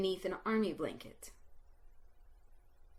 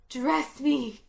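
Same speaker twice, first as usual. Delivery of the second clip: dear yearning; 4 semitones higher, 5 dB louder than usual. A narrator's reading. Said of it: "with dear yearning in my voice".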